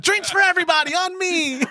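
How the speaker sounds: high, laughing mock proclamation; laughing announcement. Jumping over the bar, laughing, high announcement. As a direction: announce it grandly through a laugh. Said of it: "I was like".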